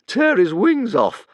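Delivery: high, loud howl; howling dragon. A narrator's reading. Dragon howling for the fight, high and loud. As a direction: howl it for the crowd. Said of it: "howled Fireworm".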